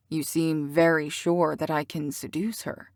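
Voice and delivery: thoughtful. Acted. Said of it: "he said thoughtfully".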